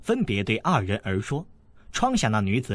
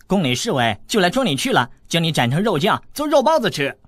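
louder, higher, gleeful scare; mock threat; 6 semitones higher, 5 dB louder than usual. Boy taunting the wounded girl with guards coming, gleeful and loud. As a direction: frighten her like a bogeyman tale.

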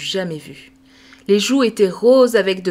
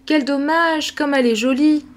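put-on girl lamenting; 6 semitones higher than usual. Camille laments.

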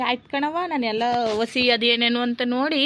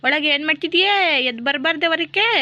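louder, raised voice calling into the room; scolding call; 4 semitones higher, 5 dB louder than usual. Acted. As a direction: nag her to come out, loudly. Scolding call to daughter-in-law inside. (ಒಳಗಿರುವ ಸೊಸೆಗೆ ಜೋರಾಗಿ ಗದರಿಸುವ ಅತ್ತೆ)

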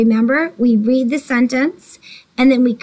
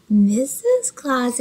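mock surprise; much slower than usual. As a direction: gasp then slow discovery.

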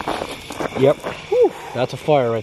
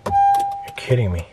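high laugh, slow "no way" groan; disbelieving laugh; slower than usual. Real, not acted. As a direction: laugh in disbelief at bad luck. Truck won't start at night.

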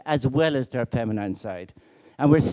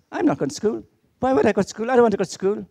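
put-on sulky child; 7 semitones higher, faster than usual. Sarah refusing school.

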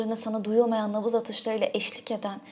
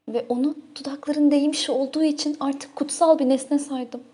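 loud, breathless-with-love outpouring; impassioned and forceful; rapturous confession; 3 semitones higher, 7 dB louder than usual. Acted. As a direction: blurt out the follies with rising excitement. Excitedly confesses lovesick follies.

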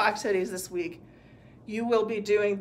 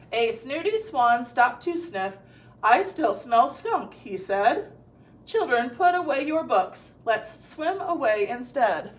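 storybook read aloud, lively character lines; reading to children. Acted. Teacher reads the story aloud to her students. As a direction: read the story to a young class.

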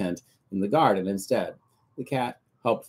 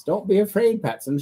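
shouting; 11 semitones higher, 4 dB louder than usual. Acted. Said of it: "she shouted".

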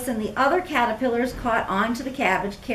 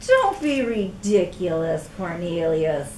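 dismissive; 6 semitones lower than usual. Acted. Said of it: "Katisha snickered".

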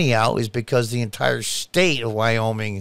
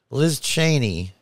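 usual speaking voice

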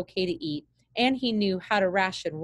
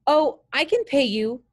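put-on eager boy blurts it out, higher and louder; blurted; 7 semitones higher, 6 dB louder than usual. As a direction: jump in fast with the offer. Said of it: "blurted Jake".

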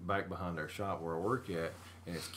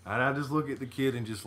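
usual speaking voice

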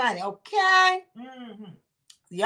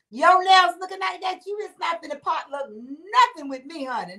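mock scolding shout; 3 semitones higher than usual. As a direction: shout it at the coworker with the long nails. Scolding coworker bringing potluck.

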